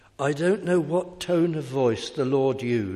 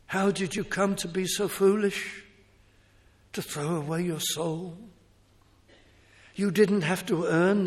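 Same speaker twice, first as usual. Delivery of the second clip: tone of pity; 7 semitones higher, 4 dB louder than usual. Acted. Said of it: "this is how Christ would have said it".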